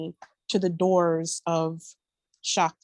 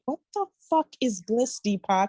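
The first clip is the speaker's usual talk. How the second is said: incredulous; 3 semitones higher than usual. Retold or imitated. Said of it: "And I'm like".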